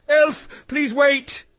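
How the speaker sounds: urgent pleading shout; desperate. Acted. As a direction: plead for her to stay. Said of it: "he said desperately".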